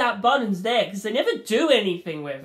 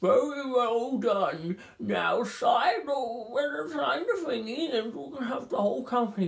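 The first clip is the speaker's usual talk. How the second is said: computer character voice; 4 semitones higher, 3 dB quieter than usual. Retold or imitated. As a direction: sound like a stiff digital game host. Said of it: "computer character thing's like".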